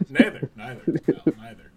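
laughing Philly neither; Philadelphia accent. Acted. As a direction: drag out neither Philly style. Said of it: "stuck to a Philly accent".

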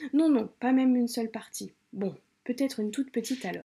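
reading a novel aloud to viewers, lightly acted; story reading. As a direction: narrate the excerpt with a little color. Reads a novel excerpt aloud.

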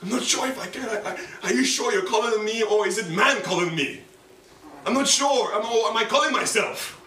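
high-pitched, anguished doubt, as if crying; retold tearful plea. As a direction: plead with God through imitated tears. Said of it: "I was crying like".

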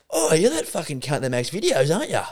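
imitated drunk guy with slurred, swooping words; slurring drunk. Drunk stranger recognising him outside a bar, slurred. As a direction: slur it like an overfamiliar drunk. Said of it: "he was just, like, slurring his words".

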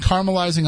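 "caramelizing" as CAR-muh-lizing; shortened caramelizing. Shown as a demonstration. Host splitting onions from candy, "caramelizing" as CAR-muh-lizing. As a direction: say "caramelizing" without its second A.

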